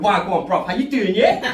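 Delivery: London street accent impression. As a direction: put on London slang accent. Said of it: "they'll have that accent".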